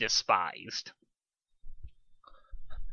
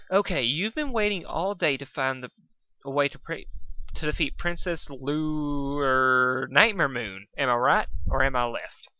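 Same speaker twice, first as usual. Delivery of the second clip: calmly; 2 semitones higher than usual. Acted. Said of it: "asked Pinkie calmly".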